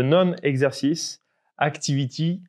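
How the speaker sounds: a light English accent on the English term, voice barely changed; self-mocking English accent. Shown as a demonstration. Co-host showing off to his partner, lightly English-accented term. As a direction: read the English phrase with a mild, proud English accent. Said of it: "attention avec mon accent magnifique".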